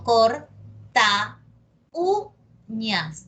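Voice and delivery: "corta uñas" said slowly, the u stressed; slow down on "corta uñas", leaning on the u; careful demo. Shown as a demonstration. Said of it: "Entonces yo digo".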